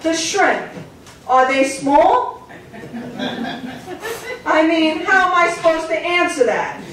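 mild imitation of a caller asking about shrimp; puzzled caller. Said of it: "deep philosophical questions".

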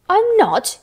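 high, loud outraged protest; indignant cry. A narrator's reading. Colin hears himself contradicted, crying out indignantly. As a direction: cry out, pitch leaping up. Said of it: "he cried".

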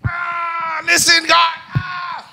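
high crying shout; mock despair. Despairing believer crying out to God, hammed-up wail.

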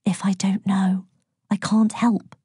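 half-whispered coaxing. A narrator's reading. Mum coaxing her son to confide, half-whispered. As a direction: whisper it, letting some voice back in. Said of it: "she whispered".

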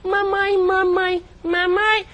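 put-on high whiny child calling mom; little kid voice. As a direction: play a small child tattling. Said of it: "simular o processo de envelhecimento".

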